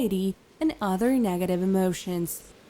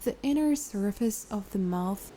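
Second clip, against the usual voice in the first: calm, unhurried guided meditation voice; 6 dB quieter than usual. Acted. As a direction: guide a listener into relaxation, leaving long pauses.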